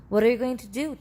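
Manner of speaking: put-on a boy asking in alarm; cried out. A narrator's reading. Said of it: "cried Charlie".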